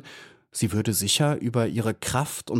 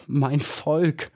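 a touch of mock sobbing, higher; 5 semitones higher than usual. Maya grieving for her people, mild acted sob. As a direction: cry out for her people in understated grief. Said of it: "schluchzte sie".

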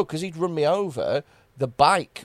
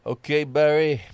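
phone sex voice. Pretend. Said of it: "this is my phone sex voice".

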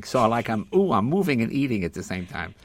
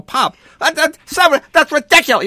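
high, loud exasperated plea; exasperated scolding; 12 dB louder than usual. Retold or imitated. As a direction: call out to your dad, fed up. Son scolding dad in store.

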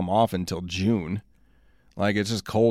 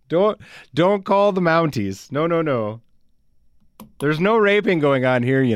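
higher-pitched, lilting mock Canadian accent; 5 semitones higher than usual. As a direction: put on a folksy Canadian accent. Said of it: "I need some more Canadian references".

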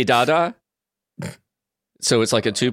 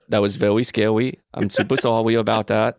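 put-on baby talk; 4 semitones lower than usual. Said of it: "You don't have to talk like that".

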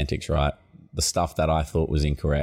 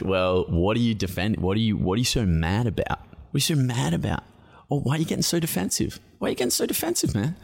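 mock accuser; 4 semitones higher than usual. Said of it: "then it's like".

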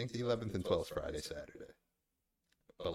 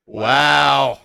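surprised wow; 9 semitones higher, 24 dB louder than usual. Real, not acted. Reacting to a phone call.

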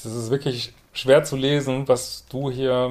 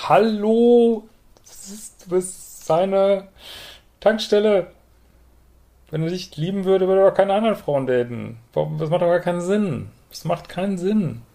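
can you believe this, pitched way up; exasperated outburst; 8 semitones higher than usual. Real, not acted. Coach reacting in disbelief to a listener's letter, exasperated and high.

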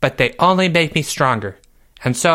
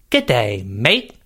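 a lightly put-on Australian accent, lower; bad Australian accent; 7 semitones lower, slower than usual. To the host, joking that Joey is Australian, a bad Australian accent. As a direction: greets like an Aussie in a mock Australian accent. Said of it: "is that meant to be an Australian accent".

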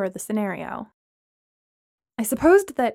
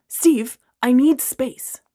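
louder, firm refusal; 3 semitones higher, 6 dB louder, much slower than usual. Acted. Braylon firmly refusing to share his space. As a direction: shut it down flatly. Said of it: "Braylon said firmly".

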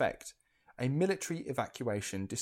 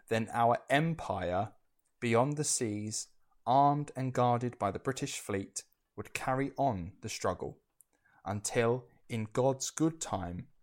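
Churchill impression. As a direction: read it like a stately war speech, only a hint of the statesman. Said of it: "I was trying to do my best Churchill impression".

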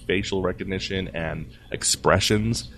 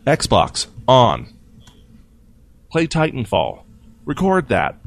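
raised-voice imitation of shouted commands; mock yell, higher and louder; imitated yelling; 4 semitones higher, 5 dB louder, slower than usual. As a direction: call it out like a voice command. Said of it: "he's yelling out".

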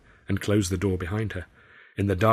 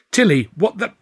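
higher, louder startled outburst; shocked; 10 semitones higher, 8 dB louder than usual. Acted. Arthur shocked to recognise Tilly. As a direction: blurt it out in shock.

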